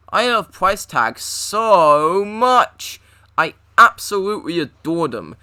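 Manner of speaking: slow, loud gushing adoration; gushing fan. Acted. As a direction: gush over your favorite character. Gushing about favourite character.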